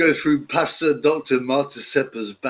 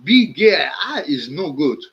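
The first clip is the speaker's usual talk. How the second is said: loud, high, crying shout in broken English; angry arguing; 3 semitones higher, 3 dB louder than usual. Retold or imitated. Pastor ranting down the phone at a radio host, loud and upset. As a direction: sputter and shout like he's near tears. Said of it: "starts arguing with the guy, saying".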